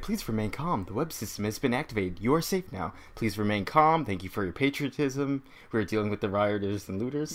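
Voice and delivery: calm, softly spoken automated announcement; soothing public address robot, lightly done; gentle care robot. Retold or imitated. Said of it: "Automated voice".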